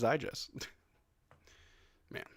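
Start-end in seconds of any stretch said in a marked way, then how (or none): none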